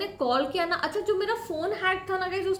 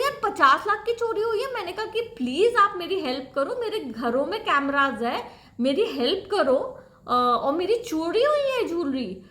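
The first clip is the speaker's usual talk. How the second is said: retold pleading yell. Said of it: "मैं चिल्लाने लगी गाइस फ़ोन पे".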